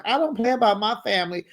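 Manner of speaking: imitating the auntie's fast, high warning; mock auntie threat. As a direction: rattle it off like a tough auntie. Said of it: "So Auntie Lauren was like".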